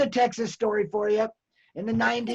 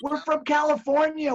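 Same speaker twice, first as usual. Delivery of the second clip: retold eager friend; 6 semitones higher than usual. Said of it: "and goes".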